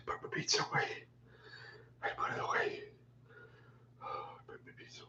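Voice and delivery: breathy whisper to herself; hushed whisper while putting food away. Real, not acted. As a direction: whisper it under your breath, aside to self. Muttering while putting pizza away.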